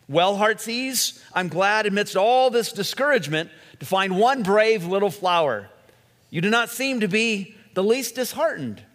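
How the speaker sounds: hint of a pleased king in a fable; lightly voiced storybook king. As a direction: read the king's praise with a lifted voice. King speaks in the parable.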